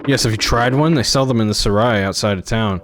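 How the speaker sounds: a lightly voiced guard, gushing about fruit; guard gushing with mild enthusiasm; eager guard. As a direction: sell the fruit like a fan. Guard raving about pomegranates.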